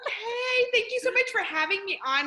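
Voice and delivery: high-pitched, teary thanks; tearful. Real, not acted. Guest thanking hosts for having her on, tearful. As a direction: thank them while holding back real tears. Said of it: "I'm trying not to cry".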